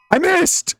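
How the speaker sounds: real startled squeak at a miss; shocked. Real, not acted. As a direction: blurt it out in sudden disbelief. Gamer shocked by a missed hit.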